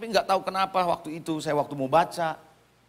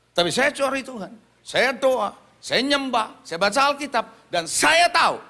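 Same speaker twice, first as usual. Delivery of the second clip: raised, higher preaching voice in short punched phrases; emphatic preaching; 7 semitones higher, 4 dB louder than usual. Real, not acted. Preacher testifying about seeking God, emphatic and building. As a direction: build to a firm declaration of faith.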